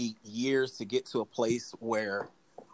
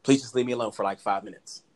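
gentle request. Retold or imitated. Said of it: "I'm like".

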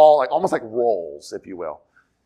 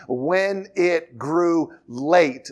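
WHEN IT GREW LATE drawn out slowly word by word; slow, weighted stress on each word of "when it grew late"; emphatic phrasing; much slower than usual. Shown as a demonstration. Preacher pointing out a key phrase, "when it grew late" slowly emphasized. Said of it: "notice this phrase".

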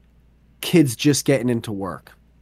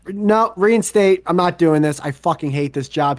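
acted fed-up refusal; 4 semitones higher than usual. Acts out worker giving up.

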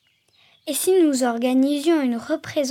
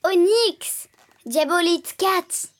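smiling, relieved call; 5 semitones higher, slower than usual. Acted. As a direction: greet the cat with relief. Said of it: "Sourit Jane rassurée".

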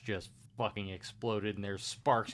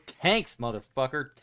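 excited. Real, not acted. Hyped chant about tanks.

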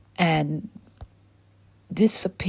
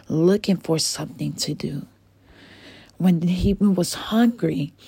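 put-on gentle storyteller reading to a child; bedtime story narration. A narrator's reading. Host reading a bedtime story to little ones, gentle narration.

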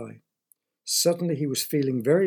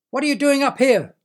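higher, louder squawking yell; yelling bird; 11 semitones higher, 8 dB louder than usual. Acted. Big black bird yells at Derek again, shrill squawk. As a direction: bird yelling even harder. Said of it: "yelled the bird again".

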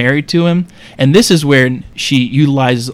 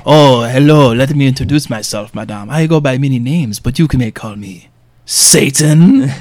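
talking candlestick. Acted. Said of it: "speaking like Lumiere from Beauty and the Beast".

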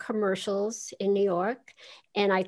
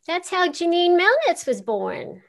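excited; 9 semitones higher, 4 dB louder than usual. Real, not acted. Excited reveal of the character.

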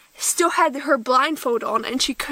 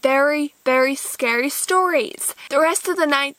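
usual speaking voice

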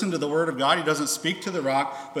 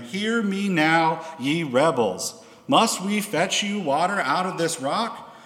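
slow, higher and louder, scolding the rebels; angry rebuke; 5 semitones higher, 4 dB louder, slower than usual. Acted. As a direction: thunder it at the crowd, drawn out. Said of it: "a little bit of anger maybe in his tone of voice".

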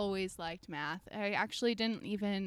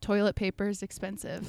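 laughing; 4 dB louder than usual. Real, not acted. Funny answer, laughing.

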